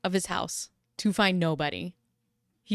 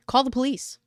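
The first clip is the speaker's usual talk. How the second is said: panicked call; 5 semitones higher, 3 dB louder than usual. Retold or imitated. Panic at knock on the door.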